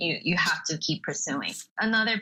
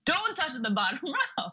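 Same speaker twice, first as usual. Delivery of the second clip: higher quote breaking into a laugh; laughing through the quote; 7 semitones higher than usual. Retold or imitated. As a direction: giggle mid-line while retelling the robber. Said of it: "and he was like".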